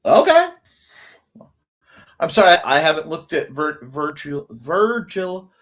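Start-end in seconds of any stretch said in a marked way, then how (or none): 2.2-5.5 real tongue-tied stumble on Virgil; tripping over speech. Real, not acted. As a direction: stumble on Virgil, restarting the name. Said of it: "My speech impediment is really nailing me".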